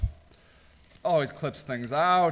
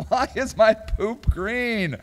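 cracking up; 4 semitones higher, slower than usual. Real, not acted. Host reading a silly search suggestion aloud, cracking up. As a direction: slowly read it, breaking into laughter.

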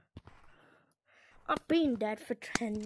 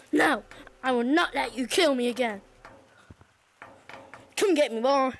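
louder, defiant taunt; 3 semitones lower, 5 dB louder, faster than usual. Real, not acted. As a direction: dare him to come.

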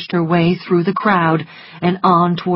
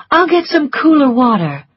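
put-on higher, urgent young woman; Scarlett's voice; 9 semitones higher, 5 dB louder than usual. A narrator's reading. Scarlett telling Melanie, in her raised voice. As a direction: voice Scarlett with quick worry.

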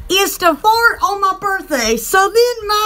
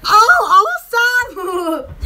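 retold excitement; 3 semitones higher, much slower than usual. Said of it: "I was like".

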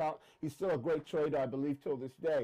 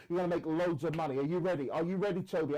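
lightly imitated pushy phone saleswoman, stress on gonna; pushy sales pitch; faster than usual. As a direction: hype him up like a cold caller, mildly. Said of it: "You know how they talk".

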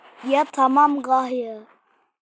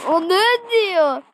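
baffled drawl; 3 semitones higher, much slower than usual. Real, not acted. Baffled by the game.

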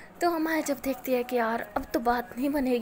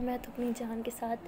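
tender smile; 3 dB quieter than usual. Acted. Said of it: "smile करके बोलती है".

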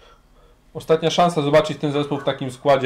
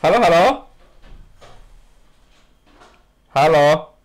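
on speakerphone; 4 semitones higher, 8 dB louder than usual. Real, not acted. Unclear phone call on air.

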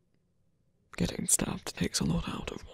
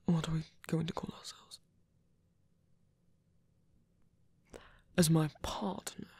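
musing whisper; 4 dB quieter than usual. Acted. Soft whisper.

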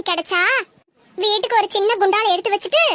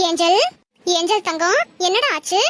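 lower, tender coaxing; gentle concern in a lowered voice; soothing mother; 4 semitones lower than usual. Acted. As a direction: comfort a crying little one. Mother comforts her crying child.

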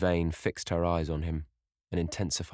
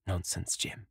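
soft, lightly hushed reassurance; whispered; 6 dB quieter, slower than usual. A narrator's reading. Sybil dismissing her brother's worry, softly half-whispered. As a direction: drop to a gentle near-whisper. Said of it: "she whispered".

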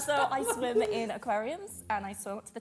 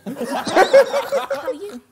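slow, high, louder mermaid voice; 11 semitones higher, 14 dB louder, much slower than usual. Pretend. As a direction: drawl it out like a playful mermaid. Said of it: "pretend you're a mermaid on the chair".

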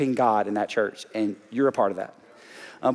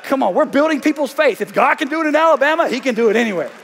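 much higher and louder, a fired-up mock yell; proud shout; 13 semitones higher, 7 dB louder than usual. Pastor reliving his proud answer to the visitor, shouting.

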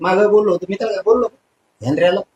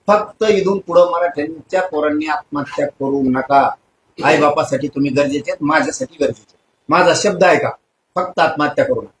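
lower, measured and heartfelt plea; earnest appeal; 4 semitones lower than usual. Real, not acted. Leader begging young Marathas not to end their lives, earnest appeal. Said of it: "आणि मराठा बांधवांना विनंती आहे".

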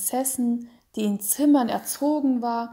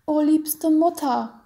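tearful cry; 6 semitones higher, 5 dB louder than usual. Acted. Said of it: "mit Tränen in den Augen".

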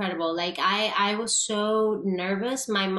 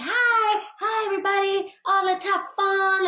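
much higher, cheery mock voice; imitating the director; 11 semitones higher, 4 dB louder than usual. Actress mimics the director welcoming the room. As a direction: put on a high, bubbly welcome. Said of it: "He's like".

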